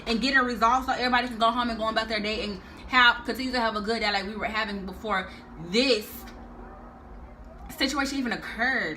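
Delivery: heated lecture. Retold or imitated. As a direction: scold him hard, then ease off. Mama Michelle confronting guard.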